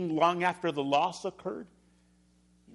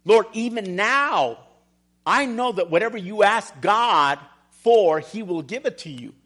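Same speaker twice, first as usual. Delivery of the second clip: confident Martha; 3 semitones higher, 7 dB louder than usual. Retold or imitated. Martha assuring Jesus of her faith, louder and firm. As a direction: proclaim it with bold trust.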